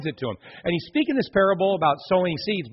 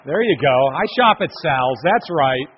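louder, cheering the thrift store like a fan; playful mock Salvation Army fan, louder; 3 semitones lower, 4 dB louder than usual. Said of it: "all you Salvation Army fans going".

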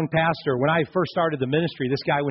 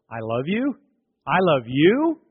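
rising, unsure I love you; doubtful question. Shown as a demonstration. Preacher showing a hesitant, questioning I love you. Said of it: "It's the tone".

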